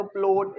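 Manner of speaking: "प्लॉट" with a closed oh vowel; trial long-O reading. Shown as a demonstration. Teacher trying readings one by one, "प्लॉट" with long oh. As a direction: say "प्लॉट" as "ploat", rounded oh. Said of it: "फिर ओ करके पढ़ो".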